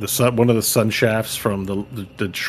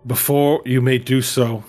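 raised, formal ceremonial address; solemn elven elder; 4 semitones higher than usual. Acted. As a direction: proclaim like a council elder. GM voices elven council leader.

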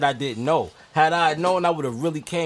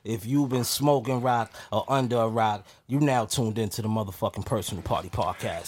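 ringmaster; 4 semitones lower than usual. Pretend. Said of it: "Let me get my intro".

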